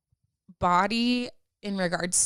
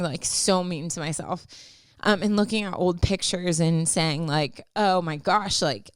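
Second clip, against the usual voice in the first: crying. Real, not acted. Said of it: "this is, like, my crying voice".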